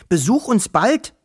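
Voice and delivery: a hint of a tiny forest creature saying goodbye; little Wawuschel voice. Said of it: "sagte Wischel".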